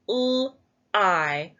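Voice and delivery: each sound said apart with a pause between. Shown as a demonstration. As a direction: segment "L, I" slowly. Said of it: "let's sound out our word".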